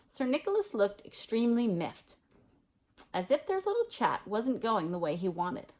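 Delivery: steady read-aloud storytelling voice; story narration. A narrator's reading. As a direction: read the chapter to your listeners. Reads a Harry Potter chapter aloud.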